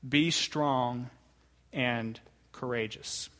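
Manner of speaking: be strong and courageous spaced and weighted; courageous drawn out at the end; emphasized scripture words. Shown as a demonstration. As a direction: lean on strong and courageous, slow. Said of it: "I tried to emphasize the words there".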